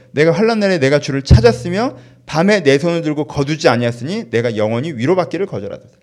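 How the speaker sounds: loud, forceful scripture quotation; impassioned crying out. Acted. Preacher voicing the psalmist in trouble, loud and impassioned. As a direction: proclaim it at full voice. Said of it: "뭐라고 얘기해요?".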